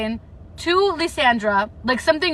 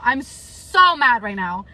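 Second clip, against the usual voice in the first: mad, drawn out; 3 semitones lower, slower than usual. Real, not acted. Vlogger repeating her anger to viewers, slow and stressed. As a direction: stretch "so" out with pent-up anger.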